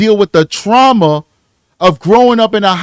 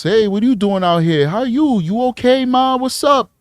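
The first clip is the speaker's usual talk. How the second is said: a soft, quieter street come-on; Harlem voice; 2 semitones higher, 5 dB quieter than usual. Retold or imitated. A predator sweet-talking a runaway, softer Harlem voice. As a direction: sweet-talk her like a smooth street hustler. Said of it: "Let me put the Harlem voice on".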